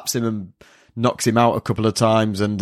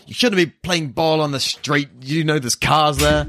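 higher-pitched mock telling-off; scolding shout; 6 semitones higher than usual. Yusuke shouts at a little kid playing in the street, scolding. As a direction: imitate him calling out a sharp warning, pitched up. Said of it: "shouts at the kid to start with".

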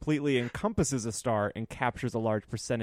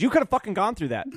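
high, louder imitation of an angry passenger; retold yell; 9 semitones higher, 5 dB louder than usual. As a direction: yell it as the scolding passenger would. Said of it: "immediately Becky yells, she goes".

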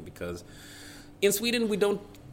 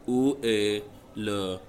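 slow, clumsy tourist French; really bad French; slower than usual. Shown as a demonstration. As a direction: stumble through it like a lost tourist. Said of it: "in really, really bad French".

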